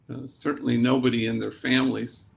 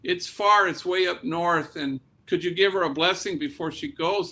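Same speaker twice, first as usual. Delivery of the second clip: higher, worried father pleading, a touch of panic; mild imitated panic, pitched up; retold panic; 4 semitones higher than usual. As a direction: voice the anxious dad's rush of worry, mildly. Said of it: "with a little bit of panic in his voice".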